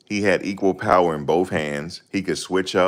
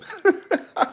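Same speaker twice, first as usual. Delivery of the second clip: a short, high laugh at his own joke. Real, not acted.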